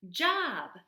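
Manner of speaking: high, loud little bird voice; gosling chirp. Acted. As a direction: squeak it out like a baby bird. Gosling Bright Bill echoes.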